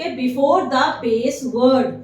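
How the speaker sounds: very slow, word by word; slow dictation. Shown as a demonstration. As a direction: read it out for students to copy. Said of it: "dictating a definition slowly".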